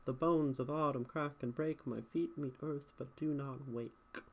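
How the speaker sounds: rhythmic verse reading with even beats; poetic meter. Shown as a demonstration. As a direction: let the meter carry the line. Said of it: "It does make this sound beautiful".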